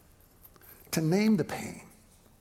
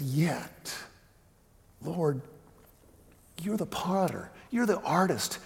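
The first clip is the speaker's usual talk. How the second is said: prayerful paraphrase. Acted.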